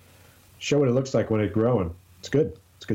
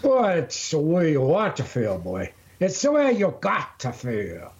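higher, folksy elder lecturing; hammed-up old man giving advice; mock old-timer; 5 semitones higher than usual. Advising his co-host on life, mock folksy old-timer.

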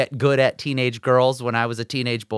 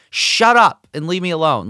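mock teen snap; 6 semitones higher, 7 dB louder than usual. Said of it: "I'd be like".

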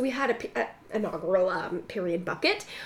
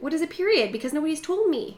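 higher, lightly voiced puzzled child; little girl; 6 semitones higher than usual. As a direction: ask like a bewildered little girl.

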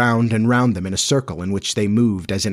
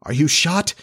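high, timid question, lightly hushed; tremulous whisper; 6 semitones higher than usual. A narrator's reading. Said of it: "John whispered tremulously".

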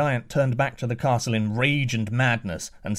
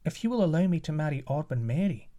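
higher, quicker prince's voice; prince's reply; 5 semitones higher, faster than usual. Acted. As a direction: answer boldly as the young prince. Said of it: "replied the prince".

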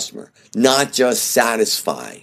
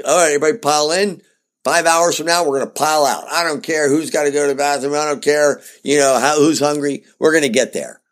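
bossy driver dad; 4 semitones higher than usual. Pretend. Driver-leader bossing the family.

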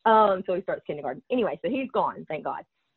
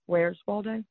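drawn-out Southern Where's Waldo, ending "Waldeh"; accent demo; 4 semitones higher, 3 dB quieter, slower than usual. Shown as a demonstration. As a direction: stretch "Waldo" into a Southern drawl. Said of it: "your accent gets in the way".

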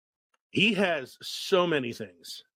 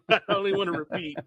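laughing; 5 semitones higher than usual. Retold or imitated. Laughing through quote.

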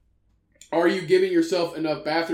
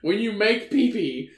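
trying not to laugh; 5 semitones higher than usual. Real, not acted. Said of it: "can you imagine this in a scientific journal".

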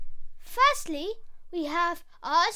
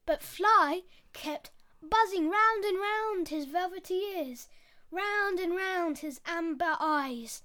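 put-on lively storyteller voice for kids; story narration; 3 dB louder than usual. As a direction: read it like a bedtime fable. Storytelling a fable.

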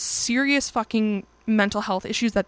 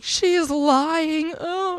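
mock whiny denial; 7 semitones higher, much slower than usual. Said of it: "he starts crying, screaming".

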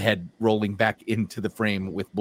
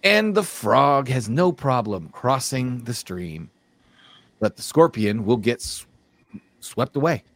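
lilting fable narration; measured storyteller's delivery; storytelling; 3 semitones higher, 4 dB louder than usual. Acted. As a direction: tell it like a well-loved fable. Tells the frog and scorpion fable.

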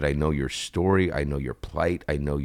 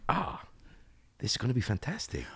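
higher, quick, upbeat put-on accent voice; Cristobal's accent; 7 semitones higher, 6 dB quieter, faster than usual. Actor showing the host his Barry accent, quick and higher. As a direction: rattle it off brightly in the character's accent. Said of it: "The accent?".

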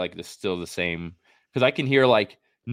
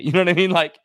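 laughing it out, much higher and louder; 11 semitones higher, 11 dB louder, faster than usual. Real, not acted. To her cohost about too much caffeine, laughing. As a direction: laugh through the question.

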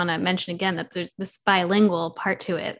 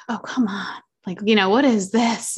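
exasperated; 3 dB louder than usual. Retold or imitated. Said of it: "it's like".

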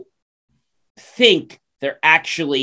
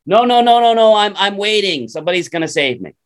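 stubborn refusal; 5 semitones higher than usual. Acted. Stuck man refuses the rope.

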